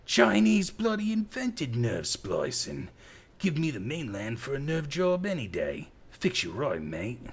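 put-on loud, high drunk Aussie accent; drunken Australian. A narrator's reading. Drunken Australian keeps bellowing.

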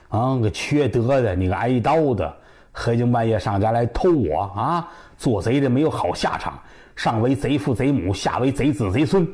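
understated acted cursing, line after line; cursing tirade. Wife curses whoever robbed her at night, mild scolding tirade. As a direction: rattle off curses with a touch of bite. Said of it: "好家伙，这通骂呀".

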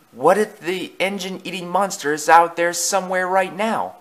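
high, anxious what-if; Percy. A narrator's reading. Percy voiced, fearing the monster.

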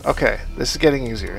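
nervous self-encouragement; shakily calming oneself down. Real, not acted. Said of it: "Talk myself through it".

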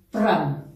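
low, falling "pram" after the count; vocal hit "pram". Shown as a demonstration. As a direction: land the move with a short "pram". Dancer voices an accent hit. ("pram" grave rematando la cuenta)

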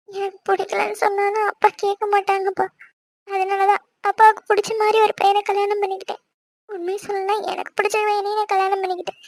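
understated sad confession; tearful. Acted. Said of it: "உட்கார்ந்து அழுதுகிட்டு இருக்க".

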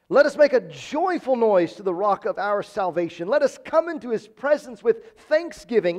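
mildly exuberant scripture reading. Acted. Preacher showing the congregation the psalm's excitement, mildly exuberant. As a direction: read it with a touch of joyful emphasis. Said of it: "This is exuberant".

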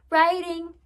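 put-on children crying out high, together; eager class calls the answer high; cried out. A narrator's reading. Scholars answer teacher, high eager cry. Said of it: "cried the scholars".

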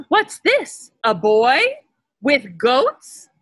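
high, eager wolf spotting prey; a hungry wolf's sudden delight; excited old wolf. Acted. Wolf spotting a boy with goats, eager and high.

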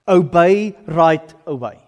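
slow, emphatic retold command; deliberate instruction. Man who shared the gospel instructs new convert, deliberate. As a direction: spell it out word by word, slowly.

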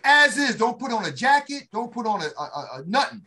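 loud, high drill sergeant command; barked order. Retold or imitated. Sergeant barking orders at recruits at one in the morning, loud and high. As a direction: bark it at the whole formation. Sergeant calling formation, retold.

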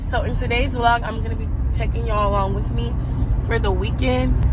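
raspy, congested voice; hoarse voice. Real, not acted. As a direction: talk through a hoarse throat. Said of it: "Please excuse my voice. I sound like a man".

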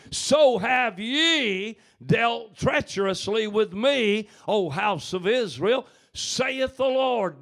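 rising, fervent preacher's plea; impassioned scripture. Acted. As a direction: cry the verse out like a betrayed spouse. Verse repeated as God's lament.

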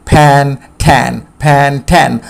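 "ফ্যান, ঠ্যান" said as "pen, ten", with "eh" vowels; same short "eh" in "ফ্যান" and "ঠ্যান". Shown as a demonstration. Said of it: "ই এখানে এর মতো হবে".

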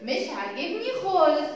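high, quick huffy protest; high-pitched mock complaint from Alif; upset letter Alif. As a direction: act out an offended letter refusing its shape. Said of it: "الألف زعلت، قالت".

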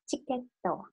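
ticket โตะ said "chiketto", chi at the start; careful Japanese pronunciation. Shown as a demonstration. Teacher insists learners pronounce it correctly, careful katakana pronunciation. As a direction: model ticket โตะ with a short added "to". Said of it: "ออกเสียงให้ถูกต้อง".

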